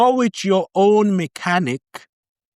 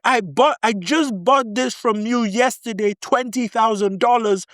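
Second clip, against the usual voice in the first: higher-pitched, mildly indignant protest; a touch of outrage, voice raised in pitch; pissed buyer; 5 semitones higher than usual. Acted. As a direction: act out a cheated buyer's disbelief, pitched up. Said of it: "And you pissed".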